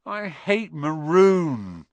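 loud, high, drawn-out whine; half-hearted moan. A narrator's reading. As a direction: moan it slowly in weary protest. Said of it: "Ron moaned half-heartedly".

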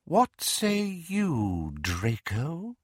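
high, slow, cold serpentine voice; menacing dark lord, measured; Voldemort voice. Acted.

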